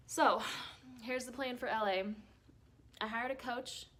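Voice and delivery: talking around gum; words softened by chewing. Real, not acted. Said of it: "I have gum in my mouth".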